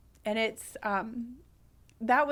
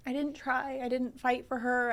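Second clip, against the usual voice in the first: higher, tearful self-reproach; choked up; 3 semitones higher than usual. Real, not acted. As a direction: confess it while holding back tears. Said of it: "I get choked up".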